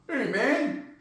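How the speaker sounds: lightly attempted Utah accent. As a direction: try a mild, unsure Utah accent. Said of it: "how do they talk?".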